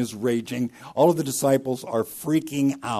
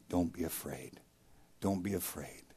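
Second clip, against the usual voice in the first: softer, hushed comfort to frightened friends; gentle reassurance; 4 semitones lower, 11 dB quieter than usual. Acted. Jesus calming the terrified disciples in the boat, softly reassuring. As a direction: soothe them quietly, like calming a scared child.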